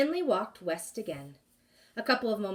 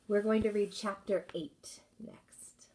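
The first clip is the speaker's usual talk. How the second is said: whisper; 2 semitones higher than usual. Real, not acted. Teacher aside before reading.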